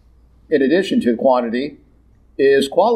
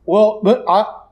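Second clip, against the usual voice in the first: sheepish Moses; 6 semitones higher, slower than usual. Acted. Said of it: "Moses caught out, stammering excuse".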